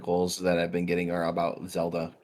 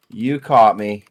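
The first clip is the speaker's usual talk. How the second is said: a louder, emphatic admission; 7 dB louder, much slower than usual. Real, not acted. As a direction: say it louder, owning up.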